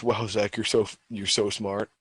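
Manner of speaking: retold mild mockery; lightly mock him with fake praise. Student mocking his friend for correcting the teacher, mildly mocking. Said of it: "like, in a mocking voice".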